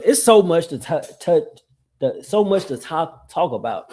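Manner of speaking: stumbling over the words; halting false starts, tripping on "touch" and "talk"; tongue twisted. Real, not acted. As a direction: trip on the phrase and restart it. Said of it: "God, I'm getting tongue twisted".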